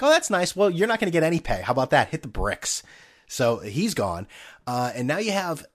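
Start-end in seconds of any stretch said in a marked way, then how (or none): 0.0-2.8 sarcastic team. Retold or imitated. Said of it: "They're like".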